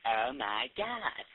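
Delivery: stretched slow mock valley girl oh my God; drawn-out valley girl. Teen gushing to a friend on the phone, slow mock valley girl drawl. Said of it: "doing this thing like".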